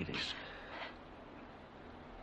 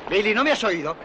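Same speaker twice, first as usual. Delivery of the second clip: put-on sharp, fast, much louder yell at the boy; alarmed shout; 12 semitones higher, 10 dB louder than usual. Father shouting a warning at his son, loud and alarmed. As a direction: snap the warning out in a hurry.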